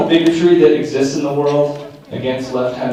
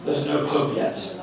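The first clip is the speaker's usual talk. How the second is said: slow, earnest reporter voice; mock a solemn on-site correspondent; news reporter; 6 semitones higher, slower than usual. Mimicking the papal conclave reporters, slow mock-grave. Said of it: "the reporting on site".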